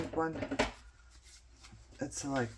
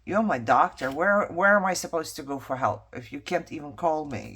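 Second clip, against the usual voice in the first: mild angry outburst; 5 dB louder than usual. Retold or imitated. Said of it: "I'm like".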